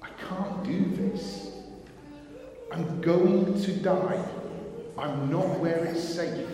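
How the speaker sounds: slow, fearful, half-whispered start; mild panic. Retold or imitated. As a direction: let the fear slow every word. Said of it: "turns to panic and fear".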